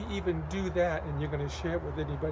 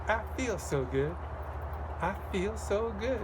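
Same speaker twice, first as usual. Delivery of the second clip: slow upbeat call; 5 semitones higher than usual. Shown as a demonstration.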